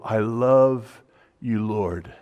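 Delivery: "I love you, Lord" said slowly, "Lord" falling away; slow heartfelt declaration. Retold or imitated. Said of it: "and powerful".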